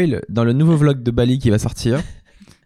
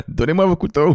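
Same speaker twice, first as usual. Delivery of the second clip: showman voice; 6 semitones higher than usual. Pretend. Knife thrower showman voice.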